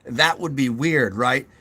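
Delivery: a hammed-up caps-lock voice; talking in all caps. Shown as a demonstration. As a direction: show how tiring nonstop caps would sound. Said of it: "always talking like this".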